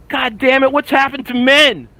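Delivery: indignant rant. Retold or imitated. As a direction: scold like an old-timer. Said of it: "And I'm like".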